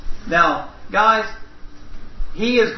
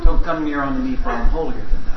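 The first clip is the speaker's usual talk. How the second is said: mock biblical prophet; 6 semitones lower than usual. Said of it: "trying to sound a little more like the Mennonites".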